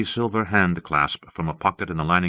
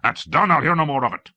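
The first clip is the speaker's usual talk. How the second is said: groaning exasperation; 6 semitones higher than usual. A narrator's reading. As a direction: shut the subject down, exasperated. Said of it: "the king groaned".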